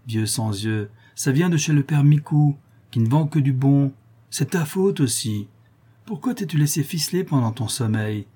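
a touch of gloating taunt; understated wicked old woman, teasing; lightly voiced mocking old crone. Old Chouette taunts her chained accomplice.

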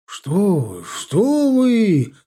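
high, loud, rising dismissal of the worry; exclaiming protest. A narrator's reading. Host brushing off the guest's worry, exclaiming. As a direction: wave it away emphatically, pitch leaping. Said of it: "воскликнул тот".

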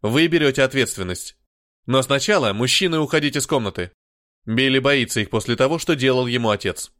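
put-on growled in a heavy Slavic accent. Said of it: "славянскому акценту".

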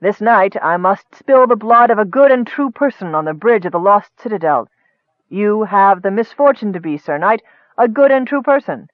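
lightly voiced gloating dark wizard; menacing wizard. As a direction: savor the threat. Akar explains his plan.

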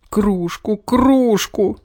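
high wail rising to a full yell; boy yelling at the teacher at full voice; bawling. A narrator's reading. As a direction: bawl it at the top of his voice. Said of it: "во весь голос завопил Петр".

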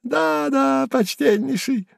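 high, mocking chatter; high sneering prattle; high chattering jester. A narrator's reading. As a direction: rattle off the taunt. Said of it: "затрещал он опять".

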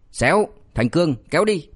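annoyed snap, rising sharply at the end; a touch of an exasperated yell; irritated shout. Acted. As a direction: shoo him off, fed up. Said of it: "bực mình quát lớn".

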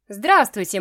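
loud, confident hello; smooth greeting. Acted. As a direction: greet her as if nothing were odd. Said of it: "сказал он без запинки".

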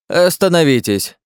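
high, slow, full shout of Остановитесь; an old man shouting from his doorway to stop the guards; loud shout. A narrator's reading. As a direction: stop them dead with a cry. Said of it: "крикнул выскочивший на улицу".

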